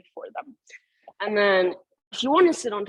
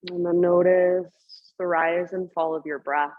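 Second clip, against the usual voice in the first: guided meditation. Acted. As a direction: guide them gently into stillness. Leads yoga meditation class.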